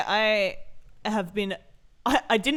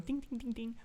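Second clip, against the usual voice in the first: imitating menu dings; 3 semitones higher, 11 dB quieter than usual. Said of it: "hear the menu going".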